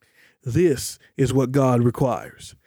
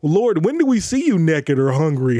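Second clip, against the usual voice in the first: mock innocence. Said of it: "we're winking and we're saying".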